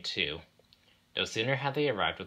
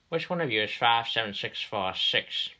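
questioning railway boss; 4 semitones higher, 3 dB louder than usual. Acted.

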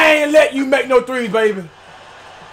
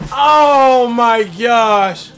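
laughing disbelief; 3 semitones lower, much slower than usual. Real, not acted.

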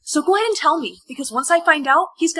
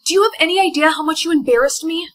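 a touch louder, indignant; angry scolding; 3 semitones higher, 4 dB louder than usual. Acted. Embarrassed soulmate confronting the one who picked the outfits, angry scolding. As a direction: scold them, mildly raised voice.

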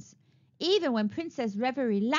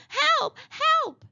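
much higher, louder cry for help; shouting for help; 5 dB louder than usual. A narrator's reading. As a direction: call out from the tower window. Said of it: "she began to shout".

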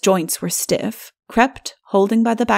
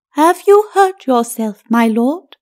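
high, hollow skeleton voice, much higher and louder; as if blown aside by a spectral wind; far-off ghostly voice; 4 semitones higher, 4 dB louder than usual. A narrator's reading. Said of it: "in a voice that sounded far off and ill-articulated".

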